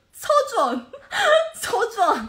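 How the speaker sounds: loud, high, furious rant with laughing. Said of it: "너무 열받아".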